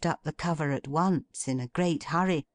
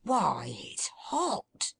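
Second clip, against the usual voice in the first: in a rapture; 4 semitones higher, slower than usual. A narrator's reading. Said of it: "cried out in a rapture".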